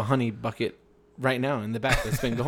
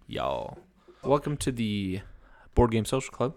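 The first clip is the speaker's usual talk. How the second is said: put-on Southern accent; slower than usual. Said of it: "Yeah, use my accent".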